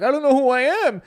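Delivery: high, loud fake wail; hammed-up tearful outcry; mock crying. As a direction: imitate a kid crying over lost memory. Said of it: "he starts crying".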